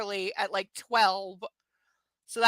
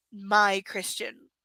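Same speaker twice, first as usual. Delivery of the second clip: mock sultry; much slower than usual.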